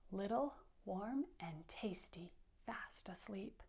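soft whispered words; whispered narration. A narrator's reading. Teacher reading to kids, whispering about sleeping mice. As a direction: whisper it to keep them sleeping. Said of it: "reading story to children".

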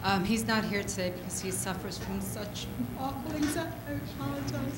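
holding back tears, voice dropping low and soft; fighting tears while speaking for her sick husband; emotional. Real, not acted. Wife asking on behalf of anxious husband, near tears. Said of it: "I just get really emotional".

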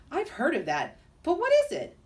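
a small creature dying to know; eager lizard. Acted. Curious lizard asks.

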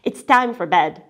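a hint of tired grandfather; grandfather, worn out, lists the chores again; weary grandfather. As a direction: list it all out, worn down. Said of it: "grandfather said wearily".

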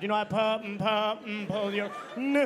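angry cop stuck on words; stutter. Acted. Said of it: "had a stutter".

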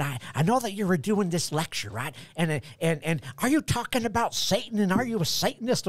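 put-on high-pitched caricature of a Southern accent; mock Southern accent. Listener questioning the lecturer about Satan, mock Southern accent. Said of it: "I go right to that accent".

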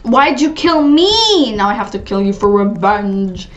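lightly voiced wronged player; mock-sad girl. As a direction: whine the question, then drop for the vow. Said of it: "that girl's, like, so sad".

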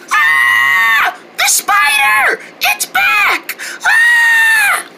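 high frightened shout; scared cry. Acted. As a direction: yelp in fright at the spider. Sisters see the spider.

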